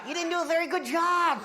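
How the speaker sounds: quick laughing shout; laughing mock shout. Real, not acted. Teasing the nose-picker, fast laughing shout. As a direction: tease him loudly through a laugh.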